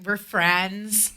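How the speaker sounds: put-on Valley-style voice, lightly done; stupid fake voice. Catching up with friends on the show, stupid fake voice. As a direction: play up a silly fake voice. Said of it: "I'm doing that stupid voice".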